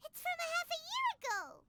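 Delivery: surprised. Acted. Paimon reads the date.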